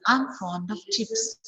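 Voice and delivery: "of" reduced in "I'm fond of chips"; weak form of. Shown as a demonstration. Teacher modelling the weak "of" to students. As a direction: say "of" as a light schwa-like weak form. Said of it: "of is a weak form here".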